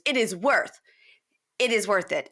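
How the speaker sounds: breathy whisper of the claim. Retold or imitated. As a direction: hush it like a secret boast. Mimicking her line about the apartment.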